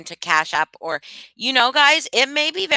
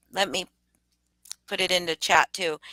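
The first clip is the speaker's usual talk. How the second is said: whisper; 3 dB quieter than usual. Real, not acted. Typing while talking.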